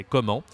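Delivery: "comment" ending on a nasal vowel; silent t. Shown as a demonstration. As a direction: say "comment" in French without its t. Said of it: "We don't say the T".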